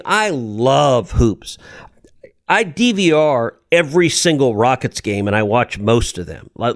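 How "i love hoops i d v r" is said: slow whispered confession. Real, not acted. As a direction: whisper it slowly like a secret. Confessing his love of hoops.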